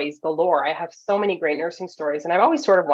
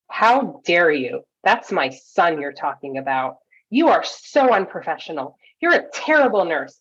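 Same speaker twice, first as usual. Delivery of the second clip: mock scolding, slow and emphatic at first; retold angry berating. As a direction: imitate an indignant mother telling off a nurse, without yelling. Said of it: "she starts yelling at me and verbally berating me".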